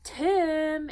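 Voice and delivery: high, loud group cry of a name; family exclaim. Acted. Family crying out the brother's name, high and loud. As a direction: call out his name together. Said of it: "exclaimed Jim's family".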